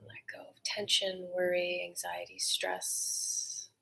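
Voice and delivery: guided meditation. Acted. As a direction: guide the breath gently, letting go. Leads a breathing meditation.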